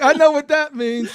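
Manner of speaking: joking along with a laugh; lightly voiced amused quote. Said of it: "She was like".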